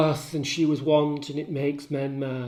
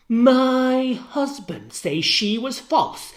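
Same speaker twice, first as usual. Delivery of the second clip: horrified disbelief; 10 semitones higher, 5 dB louder, slower than usual. Acted. Emilia horrified.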